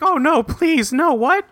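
high, hammed-up wailing plea; mock distraught Queen. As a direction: play her falling apart, mockingly. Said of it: "And she's like".

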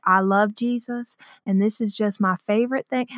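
soft, slightly Southern lady's voice; old Southern woman. Retold or imitated. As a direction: lightly imitate an older Southern lady, softly. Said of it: "this old Southern woman".

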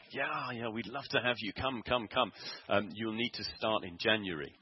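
mock eager headmistress replying; eager yes. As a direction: gush a warm yes, come come.

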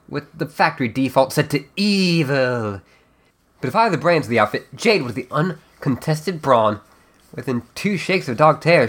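measured, dramatic storyteller narration; fireside storytelling. Acted. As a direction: spin the tale by the fire. Storytelling voice continues.

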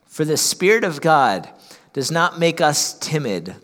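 measured reading with pauses between phrases; deliberate scripture reading. Real, not acted. Pastor reads Paul's letter to the congregation, measured and deliberate. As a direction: read the verse out firmly, phrase by phrase. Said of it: "read it a little bit slower".

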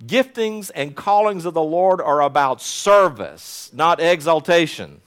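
"Giftings and callings of the Lord are about service, not exaltation" said slowly, each word weighed; emphasized phrase. Real, not acted. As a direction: lean on service against exaltation. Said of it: "may I just emphasize that word?".

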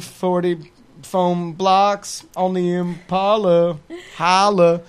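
slow, loud, high rapper boast; rapper brag voice. Pretend. Mock rap brag.

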